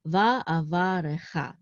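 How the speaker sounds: "va'avarecha" said slowly with the accent on final "cha"; slow "va'avarecha", leaning on the last syllable "cha". Shown as a demonstration. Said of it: "the accent is on cha".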